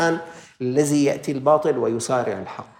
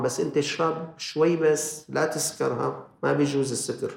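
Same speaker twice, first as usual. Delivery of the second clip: devil's coaxing; 3 dB quieter than usual. Retold or imitated. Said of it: "مثل الشيطان".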